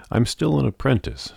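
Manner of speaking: a high defensive objection; protesting. A narrator's reading. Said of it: "Sophie protested".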